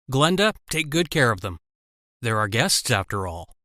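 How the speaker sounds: sarcastic. Acted. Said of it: "said sarcastically".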